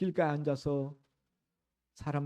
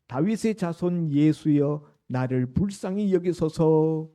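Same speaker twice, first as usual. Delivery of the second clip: loud, drawn-out plea of a blind man; acted outcry, much louder than the preaching; crying out; 8 dB louder than usual. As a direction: call out slowly at full voice for mercy. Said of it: "맹인이 외쳐 이르되".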